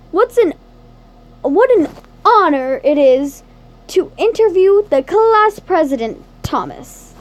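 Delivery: lightly played eager reporter; brisk interviewer opening, a touch showy; ace reporter voice. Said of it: "put on your best ace reporter voice".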